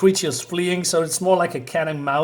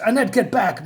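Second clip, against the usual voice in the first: raised, higher-pitched call to back off; urgent warning; 5 semitones higher than usual. Acted. Comic character warns Annette off, urgent raised call. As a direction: call out a warning, mildly acted.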